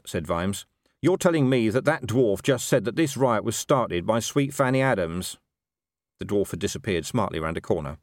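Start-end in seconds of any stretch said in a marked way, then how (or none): 1.0-5.4 higher, lightly voiced exasperated commander; incredulous watch commander. Commander hearing the dwarf's name was fake, incredulous. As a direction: check it back in exasperated disbelief.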